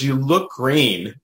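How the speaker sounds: slow, concerned teller voice; drawn-out worried remark; quoting the bank teller. Retold or imitated. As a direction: say it slowly, like a worried clerk. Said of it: "That's what she says".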